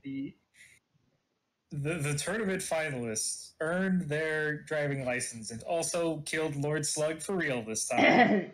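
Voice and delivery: slow, dramatic anime recap narrator. Acted. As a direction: announce the recap slowly like a TV narrator. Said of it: "drop into a narrator voice and say".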